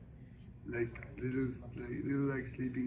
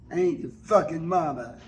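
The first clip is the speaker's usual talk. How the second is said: a touch of indignant snap, louder; mock snap at him; 3 semitones higher, 7 dB louder than usual. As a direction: Suge fires back at Grady, indignant and louder. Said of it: "Suge say".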